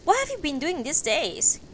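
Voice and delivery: put-on high, bright valley girl lilt. Shown as a demonstration. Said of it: "I sound like a fucking valley girl".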